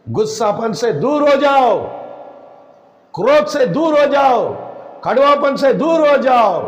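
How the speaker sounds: forceful, rhythmic commands; preacher's exhortation. Real, not acted. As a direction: drive each command home to the congregation. Preacher exhorts congregation in repeated commands. (जोशीला उपदेश, ज़ोर देकर)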